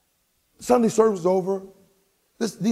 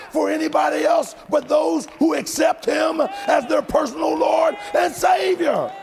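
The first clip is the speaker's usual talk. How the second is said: high, shouted, drawn-out proclamation; impassioned preacher at full cry; full-force preaching; 12 semitones higher, slower than usual. Real, not acted. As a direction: build to a ringing pulpit climax.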